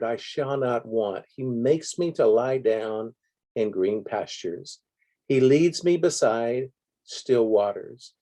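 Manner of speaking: measured, declaimed scripture with pauses between phrases; preacher proclaiming a psalm from the pulpit; psalm recitation. Acted. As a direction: recite it as a congregation's affirmation, building to the end.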